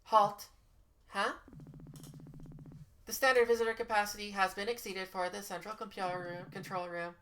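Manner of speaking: flat automated system voice; robot computer voice. Acted. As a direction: read it like a security computer.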